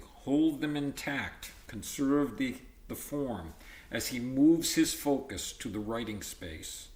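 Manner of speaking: steady textbook read-aloud; reading from the book. Acted. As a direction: read the passage to the class. Reads textbook aloud to class.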